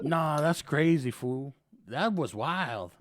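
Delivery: slow, drawn-out mock astonishment; feigned disbelief. Guilty cop commenting on his own deed, feigned disbelief. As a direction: drag it out, playing innocent.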